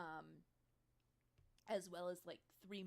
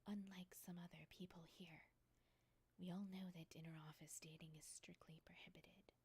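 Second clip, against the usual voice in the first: soft, measured, half-whispered warning; understated cold authority, breath in the voice; quiet rebuke; 4 dB quieter than usual. Acted. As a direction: cut them off with controlled restraint. Boss stares down and warns employee.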